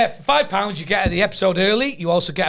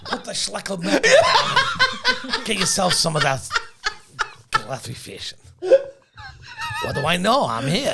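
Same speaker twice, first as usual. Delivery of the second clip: put-on Jewish old man voice; 9 semitones higher than usual. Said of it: "that's what you do all the time".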